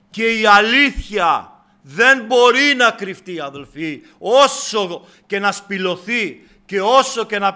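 emphatic sermon delivery, stretched key words; forceful preaching. Acted. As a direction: drive each phrase home to the congregation.

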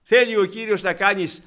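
loud, impassioned sermon voice; fervent pulpit exhortation; full-force preaching. Acted. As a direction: preach it out, pleading with the flock.

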